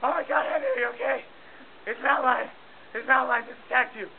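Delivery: scouts freaking out over their leader; panicked crew members. Retold or imitated. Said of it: "all my crew members are like".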